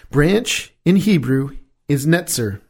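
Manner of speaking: "netzer" said slowly and carefully, the Hebrew for branch; a teacher setting Hebrew "netzer" beside "Nazareth"; Hebrew word netzer. Shown as a demonstration. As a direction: spell out "netzer" in slow, clear syllables. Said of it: "You hear the relationship".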